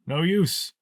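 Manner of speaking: high-pitched wizard voice; old wizard. Acted. Old wizard telling fellow prisoner it is useless, high-pitched.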